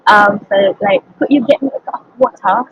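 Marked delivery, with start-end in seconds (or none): 1.2-2.7 lightly attempted British accent. Shown as a demonstration. Student demonstrating a faked accent for the interviewer, mild British accent. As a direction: try on a famous British accent, mildly. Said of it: "the British accent is really, really famous".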